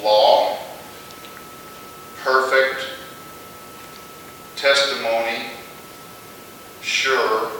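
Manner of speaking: "law", "perfect", "testimony", "sure", each set apart with weight; stressed words. Shown as a demonstration. Teacher picks out the verse's stressed words, emphatic. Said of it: "The stressed words would be".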